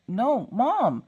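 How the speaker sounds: put-on high, drawn kid complaint; protesting child. Daughter objecting to fake French fries, high exasperation.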